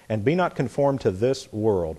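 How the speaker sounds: slight pause between "this" and "world"; slowing on THIS WORLD. Shown as a demonstration. Preacher showing listeners the difference, slowing down on "this world". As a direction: ease off the pace at "this world", parting the two words. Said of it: "A pause. I slowed down".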